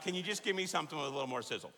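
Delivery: quick, laughing mock request; joking husband's hurried ask; laughing plea. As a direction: rattle it off through a laugh. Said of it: "I'm like".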